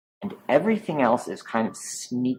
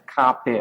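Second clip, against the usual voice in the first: kape with a short, unstressed ending; no dominant sound. Shown as a demonstration. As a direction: say kape without lengthening the final vowel. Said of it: "oh, no dominant sound".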